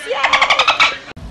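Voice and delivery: excited cheer. Real, not acted. Cheering France's World Cup win.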